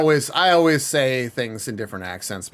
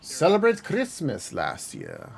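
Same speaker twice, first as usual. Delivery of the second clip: put-on Russian accent; much slower than usual. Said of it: "Why did you say that in a Russian accent?".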